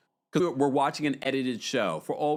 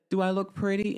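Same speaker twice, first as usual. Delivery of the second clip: innocent question; 5 semitones higher than usual. Retold or imitated. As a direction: ask it sweetly, like a hopeful patient. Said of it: "she said it so innocently".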